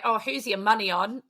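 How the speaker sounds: put-on botched American accent slipping toward Australian; failed American accent. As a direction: attempt an American accent and land nearer Australian. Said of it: "I can't do an American accent".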